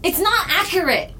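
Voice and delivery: freaking out. Acted. Character panicking about book.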